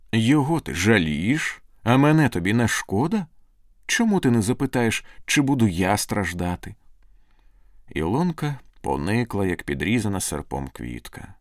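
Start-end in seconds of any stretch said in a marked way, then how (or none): 0.1-6.7 raised, pressing questions; hurt reproach. Acted. Jilted lover to his sweetheart, hurt and reproachful. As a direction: press the wounded questions, pitched up.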